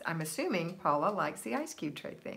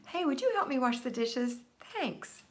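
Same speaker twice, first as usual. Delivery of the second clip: demo ask; 5 semitones higher than usual. Shown as a demonstration. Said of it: "Like this, Eva".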